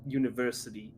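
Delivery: a lightly held New York Italian-American boxer; casual tough-guy Italian-American bragging; Italian-American accent. Acted. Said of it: "just when I'm talking character".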